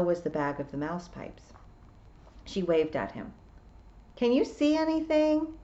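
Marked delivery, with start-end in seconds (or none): 4.2-5.5 higher-pitched call across a distance. A narrator's reading. Tiffany to the piper on the stone, calling out. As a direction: call out a question. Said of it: "she called out".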